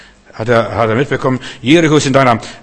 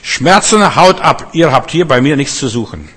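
much higher, loud rebuke; commanding the pain away; 4 semitones higher, 5 dB louder than usual. Shown as a demonstration. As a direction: order the pain to leave. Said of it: "du musst zu deinen Schmerzen sprechen".

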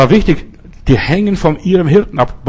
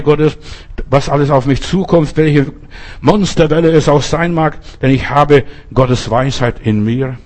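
confessing prayer. Acted.

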